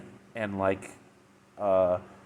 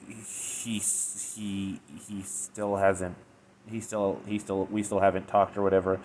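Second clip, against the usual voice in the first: halting, broken-off hesitant words, much softer at the start; devastated; 4 dB quieter, slower than usual. Retold or imitated. Retelling a heartbroken Twilight's reply, mildly devastated. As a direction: stammer it out as if crushed, mild.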